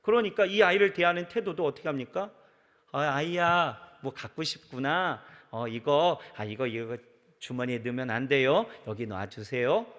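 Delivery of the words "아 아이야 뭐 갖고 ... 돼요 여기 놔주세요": polite and gentle. Retold or imitated. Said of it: "이렇게 하는 거죠".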